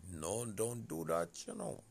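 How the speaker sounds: high, loud plea to stop. Retold or imitated. Acts out telling her to stop.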